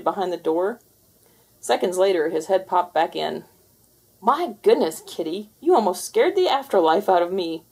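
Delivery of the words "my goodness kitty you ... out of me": startled ghost. Acted. Ghost recovering from scare.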